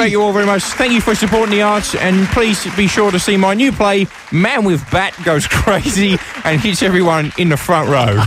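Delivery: lightly voiced celebrity impression; Bob Franklin. Actor thanking audience and plugging next play, half-hearted impression. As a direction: showman signing off in a mild put-on voice. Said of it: "attempting a Bob Franklin impression".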